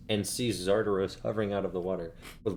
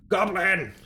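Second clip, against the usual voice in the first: calling out; 11 semitones higher, 5 dB louder than usual. Acted. DM calls goblin in.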